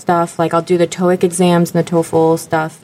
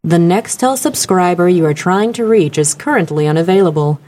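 measured voicemail announcement imitation; even, recorded-message delivery; phone recording woman. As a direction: imitate an automated phone operator. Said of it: "be the woman on the other end that said".

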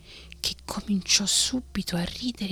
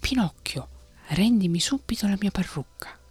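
stern demand; 4 semitones higher than usual. Acted. Father demands wig back.

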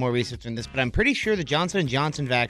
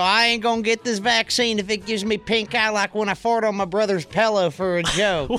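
hick voice; 8 semitones higher, 3 dB louder than usual. Retold or imitated. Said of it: "He's like".

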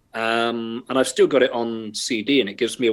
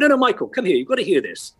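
pitched-up mock call to Michael; lightly voiced eager wife beckoning; imitating wife calling; 7 semitones higher than usual. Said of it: "She went".

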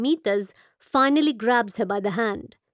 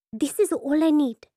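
definitive; 4 semitones higher than usual. Acted. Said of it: "she says definitively".

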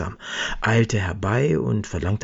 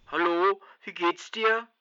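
friendly phone greeting; 11 semitones higher than usual. Acted. Herbert calls his friend.

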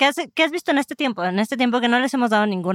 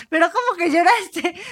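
mock disbelief; 8 semitones higher than usual. Retells her own disbelief to friend.

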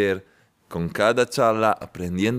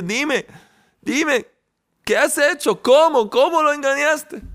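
high, eager proud dad; proud father; 3 dB louder than usual. Acted. Proud father begging his son for the trick, high and eager. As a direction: lean in, hungry to hear the trick. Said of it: "el padre orgulloso, con lágrimas en los ojos".

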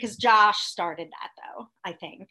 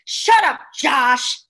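exasperated shout; 5 dB louder, slower than usual. Acted. Fan shouting at Josh on TV, fed up. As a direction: yell it at him, fed up.

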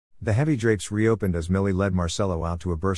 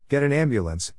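commanding; 6 semitones higher than usual. Acted. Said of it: "he ordered".

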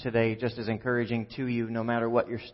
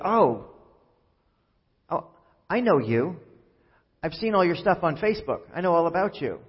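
imitating eager recognition; 4 semitones higher than usual. Imitating stranger recognising him from Facebook.

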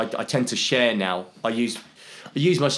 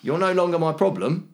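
higher-pitched, measured classroom rules voice; teacher to pupils; 6 semitones higher than usual. Acted. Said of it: "how I deal with the kids at school".

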